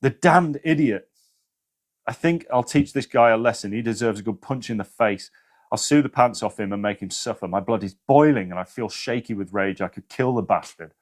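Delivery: hammed-up rage at the other driver; angry rant that cools off; mock anger.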